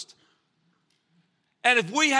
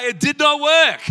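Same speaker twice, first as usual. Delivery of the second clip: loud laughing joke at Robbie's expense; laughing shout; 4 semitones higher, 8 dB louder than usual. Real, not acted. Teasing Robbie in front of the church, laughing loud. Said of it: "look at him today".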